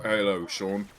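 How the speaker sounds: put-on a light British accent greeting; a touch of a British accent, lightly imitated. Imitating how a friend greets Sean, lightly British. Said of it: "he talks like this".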